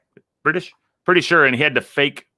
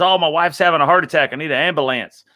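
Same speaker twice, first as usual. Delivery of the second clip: panicked caller; 4 semitones higher than usual. Retold or imitated. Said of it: "he calls, he goes".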